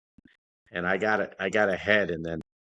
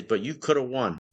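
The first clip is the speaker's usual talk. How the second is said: coach yelling; 6 semitones higher than usual. Retold or imitated. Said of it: "He says".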